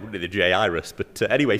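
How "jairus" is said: "Jairus" as jay-EYE-rus; compromise pronunciation. Shown as a demonstration. Preacher jokingly keeps everyone happy, three-syllable pronunciation. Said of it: "So we could do that".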